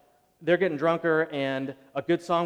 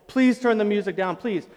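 louder, higher desperate pleading; begging; 6 semitones higher, 6 dB louder than usual. Retold or imitated. Preacher reenacting begging prostrate in the hallway, desperate. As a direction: plead with him face down on the floor.

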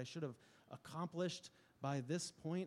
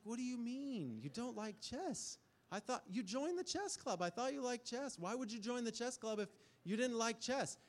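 much higher, baffled disbelief; baffled dad; 10 semitones higher than usual. Retold or imitated. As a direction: pitch it way up like a stunned dad asking his little girl. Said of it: "And I was like".

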